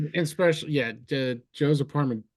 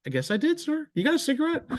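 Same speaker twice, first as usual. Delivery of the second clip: mock drunk reply; 12 semitones higher, faster than usual.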